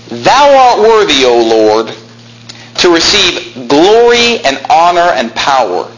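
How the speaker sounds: slow, lifted scripture reading; slow reverent recital; solemn scripture reading. Acted. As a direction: read it out with reverence. Scripture read slowly.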